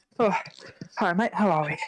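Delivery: breathless, out-of-breath voice. Greeting another speaker just after a hard race finish, out of breath. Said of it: "still trying to get your breath back".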